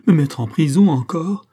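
high, loud protest; exclaiming. A narrator's reading. Michel protests to the magistrates, loud exclamation. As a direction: cry out in disbelief at prison. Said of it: "s'écria Michel".

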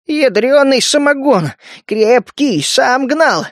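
high, proud bragging about his moonshine; boasting. A narrator's reading. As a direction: show off the homemade brew. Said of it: "хвастался жаба".

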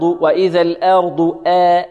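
"وإذا الأرض آ" بفتحة ممالة وبطء; مدّ الفتحة مع إمالة خاطئة. Shown as a demonstration. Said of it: "فيها شيء من الإمالة". (مثال للإمالة الممنوعة)

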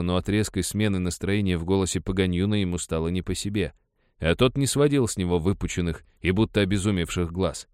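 ordinary delivery

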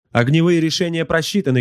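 high-pitched subordinate's report; high-voiced crew slave reporting; servile gunnery slave. A narrator's reading. War slave reports to his master.

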